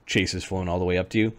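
ordinary delivery

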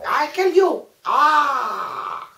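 high, shouted mock dubbed threat; badly dubbed Japanese film. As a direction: shout like a dubbed kung fu villain. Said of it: "them Japanese movies".

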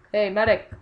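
calling out. Real, not acted. Calls a teammate in game.

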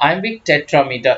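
very slow, measured reading of English notes; slow reading aloud. Acted. Teacher dictates English notes, very slow. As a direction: spell out each word for students.

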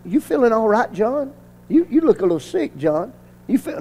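softly feigned worry over a friend; feigned concern. Retold or imitated. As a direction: check on him quietly, as if he looks sick. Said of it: "we were gonna make like we, he looked sick".

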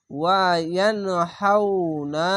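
ওয়া ইয়ানহাউনা drawn out; slow chanted ইয়ানহাউনা; slow recitation. Shown as a demonstration. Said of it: "reading পড়বেন".

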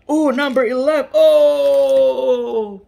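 high, loud outburst; long, high wailed "Oh"; loud dismay. Real, not acted. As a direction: cry out at the unlucky reveal. Last car is a duplicate.

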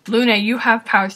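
lightly mocked matter-of-fact reveal; mock blunt announcement. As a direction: blurt it out, imitating a blunt reveal. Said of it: "Just saying straight out".

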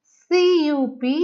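ordinary talk, nothing marked

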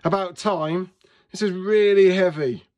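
a touch of cross cartoon grumbling; spat out. A narrator's reading. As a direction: complain with force, punching REALLY. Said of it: "spat the pea".

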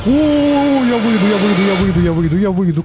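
high stretched mocking sing-song; sing-song taunt. Taunting a monster outside.

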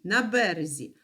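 на березі with бе stressed; stress on first syllable. Shown as a demonstration. Teacher contrasting the river bank, first-syllable stress on березі. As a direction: put the weight on бе in березі. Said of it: "звучання зовсім різне".

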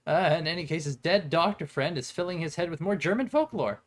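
rushed, panicky reading; panicking voice. Pretend. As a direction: read it in a panic. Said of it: "in my panicking voice".

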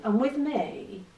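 ordinary talk

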